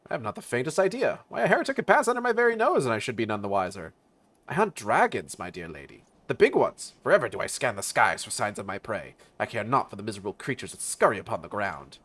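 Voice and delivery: lightly acted pompous hunter, swooping pitch; haughty dragon hunter. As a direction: play a grand, dismissive dragon slayer. Voices a dragon hunter in the game.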